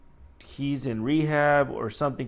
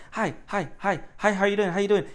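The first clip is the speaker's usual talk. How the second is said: mock over-greeting; 5 semitones higher than usual. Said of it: "What am I supposed to be like?".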